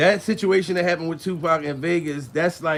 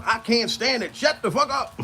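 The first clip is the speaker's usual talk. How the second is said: ordinary talk, nothing marked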